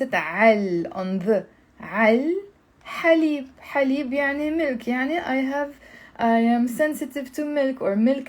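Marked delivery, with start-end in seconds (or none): 0.1-2.3 "al" joined as one syllable, the l held; with liaison. Shown as a demonstration. Teacher showing the liaison for on the, linked al. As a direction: link the a into the l: "Al". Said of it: "with the liaison, I'm gonna pronounce".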